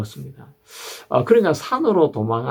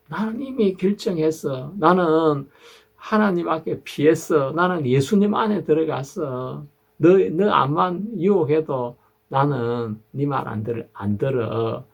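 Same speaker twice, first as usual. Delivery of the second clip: higher, resolute refusal to the tempter; firm refusal; 4 semitones higher than usual. Retold or imitated. A believer, like David, refusing the devil, higher and resolute. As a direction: plant your feet and say no. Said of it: "다윗처럼".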